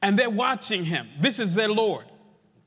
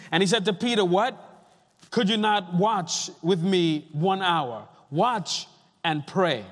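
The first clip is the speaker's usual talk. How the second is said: measured, solemn Bible reading with weighty pauses; deliberate pulpit reading, phrases falling at the ends; scripture reading. Acted. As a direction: read the passage out to a congregation, phrase by phrase. Reads scripture to the congregation.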